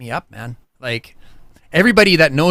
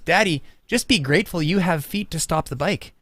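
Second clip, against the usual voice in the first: imitating son; 4 dB quieter than usual. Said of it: "my son says".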